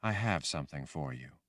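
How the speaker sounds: soothing voice. Acted. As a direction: offer it gently. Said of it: "in that soothing voice she had".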